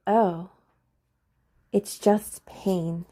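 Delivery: slow and steady; calm reassurance. Shown as a demonstration. Talking herself down from panic, slow and calm. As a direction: say it slowly to settle yourself. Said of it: "I was able to be like".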